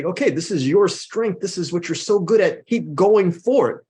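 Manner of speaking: slow, rising pep talk; a coach urging a player to keep going, slowing and rising; encouraging. Pretend. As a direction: cheer them on, stretching the end. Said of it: "energize and say".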